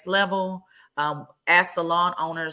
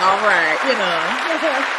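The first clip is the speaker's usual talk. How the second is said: put-on playful New York accent, louder and higher; 6 semitones higher, 7 dB louder, much slower than usual. To Wendy on the panel, a mock New York accent. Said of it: "a singer talking about your accent".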